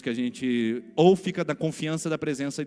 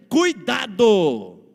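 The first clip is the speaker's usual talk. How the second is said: very loud, slow, high "Cuidado!" then pressing on; shouted warning; 8 semitones higher, 8 dB louder, slower than usual. Acted. Pastor shouts the warning to the congregation at the climax. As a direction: cry out the alarm at the peak.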